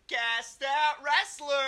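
loud, slow, high game show announcer. Acted. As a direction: announce the segment like a showman. Segment title announced.

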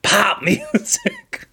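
high, slow, drawn-out wrestler growl; wrestler impression. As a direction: ham up the wrestler catchphrase. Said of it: "And that's all he said was just like".

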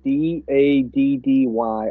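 slow, drawn-out teasing purr; mock sultry. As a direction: stretch it out, mock seductive. Joking about "daddy hug.

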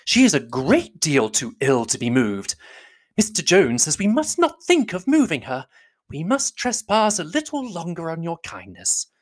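high, slow, insistent matron; high, drawn-out, effusive pleading; fussy mother. A narrator's reading. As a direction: play a mother laying it on thick. Mrs Bennet insists Jane stay.

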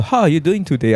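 lilting American tune on "How are you doing today?"; American intonation. Shown as a demonstration. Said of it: "It's about the intonation".

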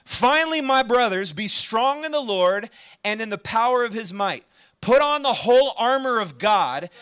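emphatic, declamatory Bible reading; scripture reading. Acted. Preacher reads Ephesians to the congregation, emphatic scripture reading. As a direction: read the verse out firmly, phrase by phrase.

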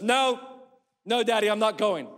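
put-on a touch of little girl's whine; whiny little girl. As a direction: play a scared small daughter saying no. Daughter Hope refusing at top.

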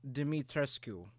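"Dimitrescu" slowly, as dim-ee-TRES-koo; careful pronunciation. Shown as a demonstration. Cohost showing the forum's way to say it, careful pronunciation. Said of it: "how to pronounce her fucking name".

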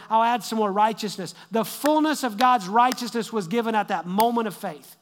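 fervent sermon climax; preaching at full force. Real, not acted. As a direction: preach it out, building. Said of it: "y'all got me preaching now".

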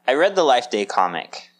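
lukewarm announcement, little excitement; unenthusiastic. Real, not acted. Host admits to reading a comic, unenthusiastic. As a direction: share it without much enthusiasm. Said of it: "You sound so excited about it".

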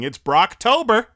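high, loud mock cheer; hammed-up imitation of corny hype; corny fans. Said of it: "some corny people were saying".

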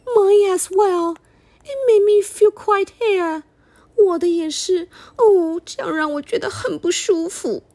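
high, loud, upset mother bear; Mommy Bear voice. Acted. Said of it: "Mommy Bear said".

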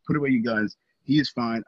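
high, loud desperate pleading; begging mother. Retold or imitated. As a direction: beg the police, voice up and pushed. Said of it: "she's begging him".

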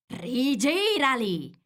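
high, drawn-out furious command; furious order. A narrator's reading. Furious Queen orders the Knave, high and drawn out. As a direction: stretch the order out in anger.

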